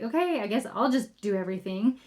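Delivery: a touch of put-upon martyr; mock victim mode. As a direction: play the long-suffering victim, without yelling. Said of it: "a little bit of a victim mode".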